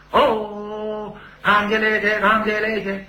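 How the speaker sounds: high opera stage cry; opera banner call. Retold or imitated. Opera chant repeated on stage.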